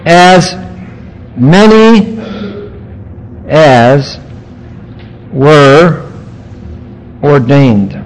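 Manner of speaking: very slow, a long pause after each word. Real, not acted. Preacher quoting a powerful statement to the congregation, word by word. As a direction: spell the verse out one deliberate word at a time.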